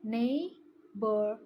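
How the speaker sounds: neighborhood drawn out and stressed; slow demo repeat. Shown as a demonstration. Student repeating the word for the class, slowly. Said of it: "One more".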